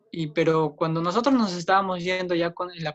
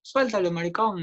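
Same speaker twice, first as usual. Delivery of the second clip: higher-pitched mock yell without real volume; retold yell; 4 semitones higher than usual. Man in the street yelling at a gay couple, retold mild shout. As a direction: imitate a heckler's shout at half strength. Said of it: "un hombre nos empezó a gritar".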